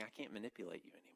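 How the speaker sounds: fast, hushed whisper of surrender; whispered confession. Acted. Preacher voicing David to God, fast whisper. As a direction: whisper it as a broken man admitting defeat.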